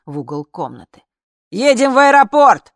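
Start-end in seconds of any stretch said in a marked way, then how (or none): 1.5-2.7 very loud, high call; shouting. Acted. Guard calling from the dark, very loud. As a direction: shout it out of the darkness. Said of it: "закричала откуда-то из черноты".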